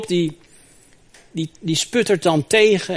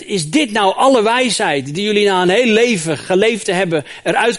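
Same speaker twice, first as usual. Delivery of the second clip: put-on angry young man; 3 semitones higher, 3 dB louder than usual. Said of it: "die wordt boos".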